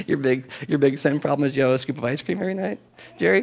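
laughing through the question; amused, half-laughing tease; laughing disbelief. Retold or imitated. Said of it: "And I laughed".

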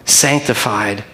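prayer. Acted. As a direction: pray over the church sincerely. Leads congregation in prayer.

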